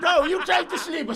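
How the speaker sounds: loud, high, slow accusing yell; hammed-up shout at a sleeping worker; mock shout. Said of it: "si nga ko".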